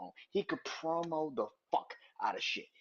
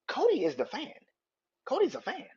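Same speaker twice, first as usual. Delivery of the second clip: much higher, louder insistence; excited insistence; 9 semitones higher, 4 dB louder than usual. Real, not acted. Fan arguing about Cody and Cena, excitedly insisting. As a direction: drive the point home, voice jumping up. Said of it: "stressing his point, much higher".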